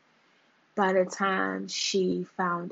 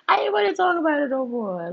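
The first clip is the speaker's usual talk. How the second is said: higher, louder, voice breaking into a cry; 6 semitones higher, 5 dB louder than usual. Real, not acted. Vlogger crying out about her old relationships. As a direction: let the repeat crack into a wail. Repeats line with emotional cry.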